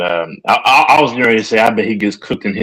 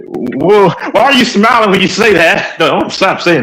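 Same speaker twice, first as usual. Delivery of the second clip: amused disbelief; 10 semitones higher than usual. Real, not acted. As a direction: tease him through a grin. Laughing protest at friend.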